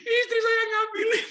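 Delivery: high and loud through laughter; laughing. Real, not acted. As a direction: blurt it out laughing. (tertawa keras dan tinggi)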